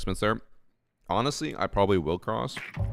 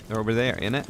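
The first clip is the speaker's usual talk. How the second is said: higher-pitched mock British accent; 5 semitones higher, 4 dB louder, faster than usual. Shown as a demonstration. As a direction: try out an amateur British accent. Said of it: "with a British accent".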